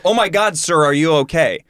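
retold check on a fallen stranger; acted-out "oh my God" concern; imitating concerned buddy. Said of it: "But my buddy goes".

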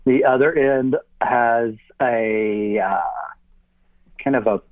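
speaking around an object in the mouth; mouth full. Real, not acted. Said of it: "a bad idea to put that in your mouth".

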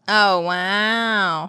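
restrained, played-up wow; mock amazement. Co-host reacting to the purple fiends in the ad, mildly mock-amazed. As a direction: act politely impressed. Playing impressed at the ad.

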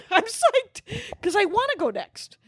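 mock psyched. Gleefully retelling own reply.

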